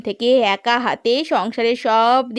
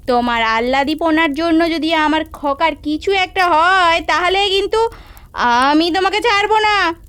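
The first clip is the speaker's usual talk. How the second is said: sharp scolding, pitch climbing into a threat; scolding mother-in-law; 2 semitones higher than usual. Acted. Mother-in-law scolding her son's wife, rising into a threat.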